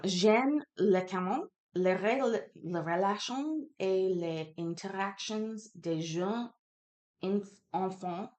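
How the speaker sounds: halting attempt at a French accent; faked French accent. Real, not acted. Streamer struggling to read a French reference aloud, faked French accent. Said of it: "French accent".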